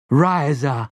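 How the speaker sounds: a sharp cry as she throws; sharp battle cry. Acted. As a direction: shout the war cry.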